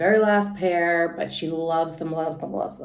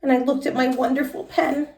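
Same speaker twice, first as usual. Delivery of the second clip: put-on lively little-girl storytelling voice, pitched higher; Junie B. read aloud; 6 semitones higher, 4 dB louder than usual. Teacher reading Junie B. to the class in a high kid voice. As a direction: read it as an excited first-grader telling her story.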